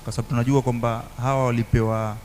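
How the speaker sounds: normal talking voice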